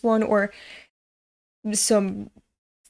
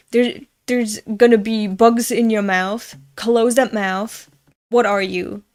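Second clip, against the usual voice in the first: louder mock scolding relatives; imitating family; 5 dB louder than usual. Retelling how family nagged her as a child, mock scold. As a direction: nag like the family did. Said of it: "all my family would say".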